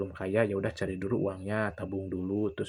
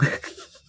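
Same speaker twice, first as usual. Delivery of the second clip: brief voiceless chuckle; short chuckle. Real, not acted. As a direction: let out a quick laugh. Laughs at own retold comeback. (tawa kecil singkat)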